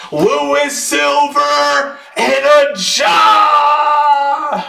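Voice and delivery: high, slow, drawn-out hype yell; excited shout. Real, not acted. Breaker announcing a silver and a Ja, excited shout. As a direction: build the call to the last name. Breaker pulls two good cards.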